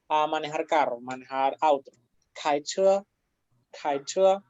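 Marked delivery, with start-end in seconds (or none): 2.3-4.4 KAICHE with each syllable held level; both first tone. Shown as a demonstration. Teacher repeating for students, KAICHE in two level tones. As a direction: keep KAI and CHE on steady, even tones. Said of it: "las dos con primer tono".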